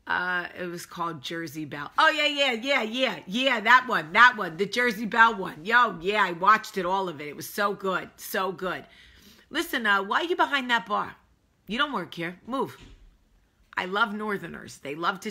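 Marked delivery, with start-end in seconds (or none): 2.0-8.8 put-on loud, gushing Northern accent. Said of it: "I like to do a northern accent". 9.5-12.8 put-on bossy, higher-pitched Northern accent. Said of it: "I like to do a northern accent".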